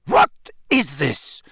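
mild alarmed cry, slow; a touch of alarm at the scene; cried. A narrator's reading. Karkaroff seeing his student on the ground, mildly alarmed. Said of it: "he cried".

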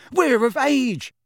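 high, loud, drawn-out protest; indignant bellow. A narrator's reading. Twin brothers protesting to their mother, indignant bellow. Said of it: "Fred and George bellowed together".

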